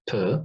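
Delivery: P as a short, unstressed syllable; weak syllable. Shown as a demonstration. Teacher splitting a word for students, P unstressed. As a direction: keep P light and brief. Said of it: "The first one is weak".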